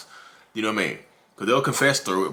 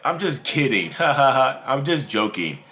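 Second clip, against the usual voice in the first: higher-pitched pretend just-kidding; mock joking laugh; 4 semitones higher, slower than usual. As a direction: laugh it off with a put-on ha ha ha. Acts out laughing off an insult.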